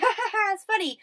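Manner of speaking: Will Smith. Retold or imitated. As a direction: laugh through it as a mock amused husband. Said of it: "Will's laughing".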